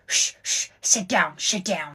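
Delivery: hushed urgent command; whisper yelling. Acted. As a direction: hiss at her to sit. Hushing the crying friend.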